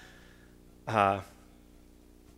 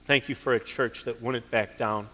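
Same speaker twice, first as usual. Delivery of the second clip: closing prayer. Acted. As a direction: pray over the congregation, sincere and hushed. Pastor leads closing prayer.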